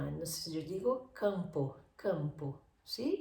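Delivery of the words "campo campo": campo with a clear oral vowel, no nasal; Spanish oral campo. Shown as a demonstration. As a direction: say campo the Spanish way, through the mouth. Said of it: "En español yo sale por la boca".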